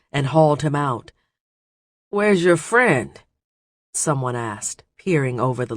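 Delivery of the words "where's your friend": gruff pirate voice. Acted. Pirate asks, voiced higher.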